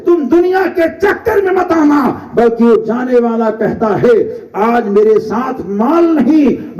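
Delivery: mild sermon cadence; sermon lament. Acted. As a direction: draw out the mourning like a pulpit orator.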